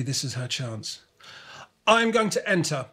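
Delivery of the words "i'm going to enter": higher and louder, sure of herself; Kimmy declares she will enter, bold and certain; confident announcement. A narrator's reading. Girl announcing her race entry to friends, confident. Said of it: "she announces confidently".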